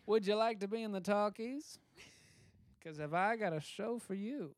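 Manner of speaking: Hollywood talent scout. Retold or imitated. Acting talent scout pitch.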